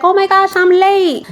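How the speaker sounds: high, breathless oh my gosh; flustered arrival. Retold or imitated. Host imitating Janet arriving late, high and flustered. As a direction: gasp out that you're late.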